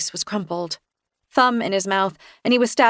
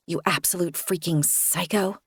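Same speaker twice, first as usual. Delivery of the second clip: muttered under the breath, much softer; a private insult kept very quiet; inward thought; 6 dB quieter than usual. Acted. Narrator thinking it, a soft hidden jab.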